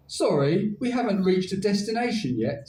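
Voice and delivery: lightly voiced robot greeting; flat mechanical robot voice. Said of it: "said the robotic voice".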